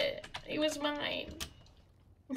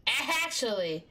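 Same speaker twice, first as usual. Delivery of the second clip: actually called out, louder and brighter; louder exclamation; slower than usual. Real, not acted. Realising a new plan, louder exclaimed actually. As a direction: repeat it with a sudden burst.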